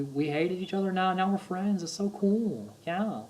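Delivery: amazed surfer-dude wonder, high and breathless; Owen Wilson impression. Mocking a male model's awe at his own adventure, amazed impression. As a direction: act wide-eyed, surprised by everything. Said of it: "He just always sounds surprised".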